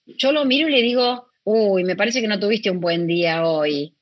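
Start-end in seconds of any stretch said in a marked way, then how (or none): 1.4-3.9 calm gentle reply. Retold or imitated. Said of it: "en vez de ir arriba, bajo".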